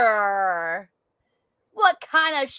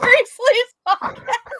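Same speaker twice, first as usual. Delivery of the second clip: 1 laughing shout; 14 semitones higher, 6 dB louder, much slower than usual. Real, not acted.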